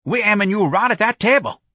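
high, effortful lifter; strained reassurance; panting. A narrator's reading. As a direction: talk while heaving a heavy load. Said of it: "a lifter panted".

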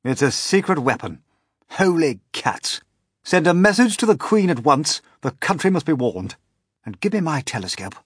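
high, loud urgent orders; captain fears a secret weapon; alarmed captain. A narrator's reading. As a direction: raise the alarm to the crew. Captain alarmed by flying peach.

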